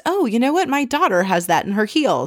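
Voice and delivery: high, excited gush; imitating Ramona.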